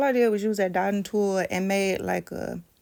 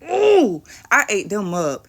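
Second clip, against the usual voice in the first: excited squeal; 10 dB louder than usual. Real, not acted. Admiring her finished nails.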